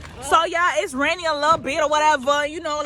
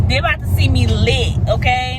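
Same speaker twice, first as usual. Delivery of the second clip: loud, boastful announcement; defiantly loud, playing to viewers; loud vlog hype; 5 dB louder than usual. Real, not acted. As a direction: belt it out for the camera. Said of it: "you have to yell for people to hear you".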